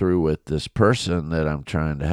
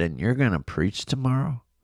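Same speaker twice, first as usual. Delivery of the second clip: put-on calm, even, composed, pitched-up tone; 6 semitones higher, 3 dB quieter than usual. Retelling what a man said to the speaker, imitating a calm voice. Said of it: "he said it in a calm voice like that too".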